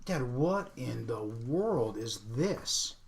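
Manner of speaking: put-on slow, puzzled teen daughter voice; imitating his daughter. Dad mimics his teenage daughter, slowly puzzled. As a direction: drag it out like a baffled kid. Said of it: "she goes".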